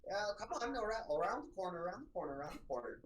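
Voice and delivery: high, offended librarian retort; a proud scholar insulted; affronted Diana. Acted. GM voices Diana.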